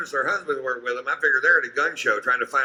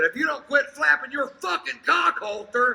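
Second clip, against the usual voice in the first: higher, half-laughing comeback; retorting to the lady. Retold or imitated. Comedian snapping back at the rude lady, amused retort. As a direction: fire it back at her with a grin. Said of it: "I said".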